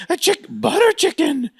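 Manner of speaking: high, put-on waiter voice; waiter impression. Waiter echoing the next order, hammed-up high voice. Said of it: "And he's like".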